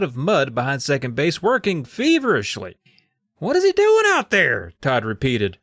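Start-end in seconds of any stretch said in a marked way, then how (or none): 3.4-4.7 put-on indignant kid voice. Todd voiced in read story.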